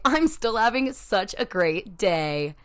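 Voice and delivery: slow, loud, defiant sunniness; defiant cheer. Pretend. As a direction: stare the day down and insist. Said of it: "look that day in the face".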